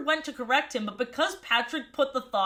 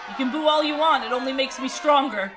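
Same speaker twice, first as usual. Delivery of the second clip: sneering wrestling villain; 6 dB louder than usual. Pretend. Mock heel taunt after a pun.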